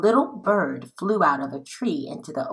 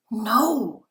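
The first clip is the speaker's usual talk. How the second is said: a higher sharp No of alarm; alarmed cry; 6 semitones higher than usual. Acted. James trying to stop Henry, alarmed cry. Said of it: "cried James".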